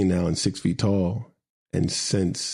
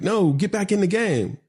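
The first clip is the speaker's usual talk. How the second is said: higher-pitched retold sideline command; retold stern order; 10 semitones higher than usual. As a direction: order the kid back in, pitched up.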